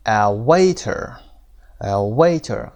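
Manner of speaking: "waiter" with a strong WAI; stress on first syllable. Shown as a demonstration. Teacher models "waiter" for students, first syllable stressed. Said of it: "قسمت اول".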